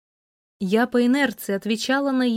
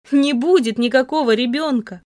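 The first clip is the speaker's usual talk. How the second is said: sobbing; 2 semitones higher, 4 dB louder than usual. Acted. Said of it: "Сквозь душившие меня рыдания".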